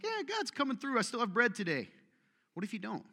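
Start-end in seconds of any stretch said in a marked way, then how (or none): 0.0-1.9 mock cheerful believer. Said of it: "so it's like".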